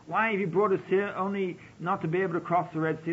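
a touch of frightened complaint to the leader; panicked crying out. Retold or imitated. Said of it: "crying out to Moses and saying".

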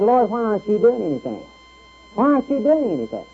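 rising, pleading complaint to God; complaining prophet. Acted. Preacher voicing Habakkuk complaining to God, pleading rising.

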